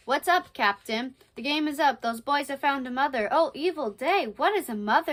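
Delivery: lightly dramatized pirate lines; stage pirates in dialogue. Acted. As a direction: act out the crew's alarm lightly.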